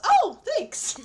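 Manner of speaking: high, loud oblivious thank-you; Penny. Retold or imitated. Sitcom character thanks someone for chocolate, high mock-grateful voice. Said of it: "Penny's just".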